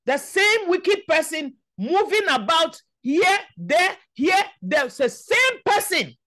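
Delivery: urgent pulpit declarations in repeated phrases; insistent, rhythmic sermon delivery; impassioned preaching. Real, not acted. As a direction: preach with driving conviction for the congregation's amens.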